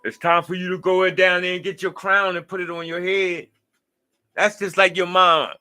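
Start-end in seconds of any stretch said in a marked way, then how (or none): 0.0-3.5 a loud, pumped-up wake-up call; mock hype-man call. Knocking on the viewer's door, a loud mock pep call. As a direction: bang on the door and hype them up to take the crown. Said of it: "keep knocking on your door talking about".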